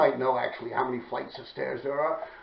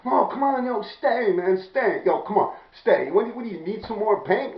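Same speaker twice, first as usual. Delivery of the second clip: pleading; 5 semitones higher than usual. Retold or imitated. Acts out begging guy to stay.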